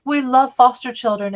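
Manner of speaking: mocking their proud claim; mocking quote. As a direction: parrot their line with a sneer. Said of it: "where they said".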